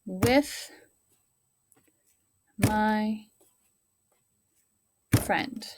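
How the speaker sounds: one word at a time, long pauses between; word-by-word dictation for young pupils; pounding out each word. Shown as a demonstration. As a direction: tap out every word slowly like a drum beat. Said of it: "So we're gonna pound out".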